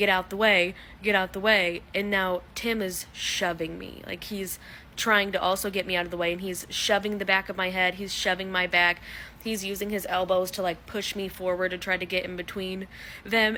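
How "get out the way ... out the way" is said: plain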